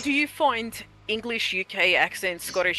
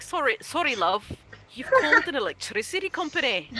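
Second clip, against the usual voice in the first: higher, lilting imitation of a Welsh accent; lightly put-on Welsh accent, pitched up; Welsh co-worker; 4 semitones higher than usual. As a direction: imitate a polite Welsh call-centre worker. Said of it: "I had a Welsh co-worker".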